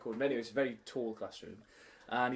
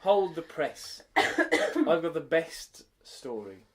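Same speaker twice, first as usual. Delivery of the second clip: slow, loud, grand build-up; mock announcement; 4 dB louder, much slower than usual. Real, not acted. Teacher announcing her best story to a friend, slow and grand. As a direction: announce it like breaking news.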